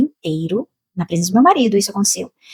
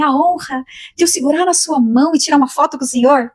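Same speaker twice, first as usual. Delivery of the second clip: higher, hopeful asking; nervous fan request; 6 semitones higher than usual. Retold or imitated. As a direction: ask your idol shyly for a photo. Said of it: "tão emocionada, tão nervosa".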